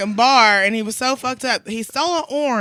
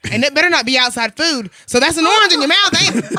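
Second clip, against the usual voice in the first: mock interrogation building louder and higher; retold scolding; 4 semitones higher, 4 dB louder than usual. Bartender corners orange thief, retold scolding. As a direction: press the accusation up to a loud finish. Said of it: "I yelled at this nigga for".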